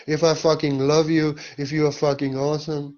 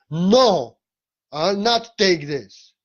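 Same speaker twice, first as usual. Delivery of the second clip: lion roar; 4 semitones higher, much slower than usual. Shown as a demonstration. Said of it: "The new way is a lion".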